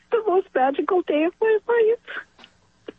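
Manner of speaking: real tears breaking through, slowed; tearful. Real, not acted. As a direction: voice catching with held-back tears. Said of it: "I get a little emotional talking about this".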